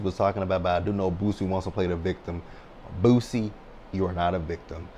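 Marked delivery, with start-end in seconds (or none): 3.0-4.9 calling out. Real, not acted. Addressing Boosie directly.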